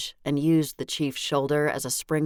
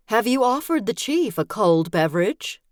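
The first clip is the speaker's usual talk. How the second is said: higher, louder accusing question; a pointed, higher mother's reproach; accusatory tone; 8 semitones higher, 5 dB louder than usual. Acted. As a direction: needle the daughter in front of the guest. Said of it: "Her accusatory tone was evident".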